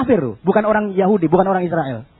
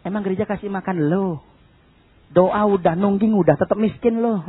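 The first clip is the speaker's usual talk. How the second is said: lightly voiced sneering neighbour, softer; hint of a scoffing neighbour; mocking neighbour; 3 semitones lower, 4 dB quieter than usual. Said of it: "tetangga mulai bilang".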